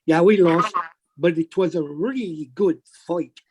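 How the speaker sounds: put-on light Irish accent, joking; a hint of an Irish brogue. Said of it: "put my Irish accent on".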